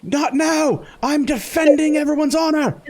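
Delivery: high, loud pompous dismissal; heroic shout. Acted. Lamont brushing off the crewman mid-fight, high loud bluster.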